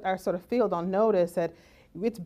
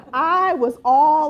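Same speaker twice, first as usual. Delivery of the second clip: laughing; 7 semitones higher, 9 dB louder, much slower than usual. Real, not acted. Laughing while mocking.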